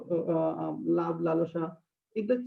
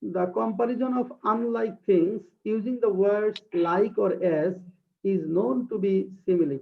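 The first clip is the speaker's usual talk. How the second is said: very slow, deliberate reading of a definition; slow dictation; much slower than usual. Shown as a demonstration. Teacher reading a definition aloud to her class, slow dictation. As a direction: read it word by word for students to copy. Reads English definition slowly.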